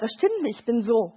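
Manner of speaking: lightly voiced younger sister, pitch jumping up then dropping; imitated contradicting girl. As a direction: protest back at the older sister. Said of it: "Und sie sagt".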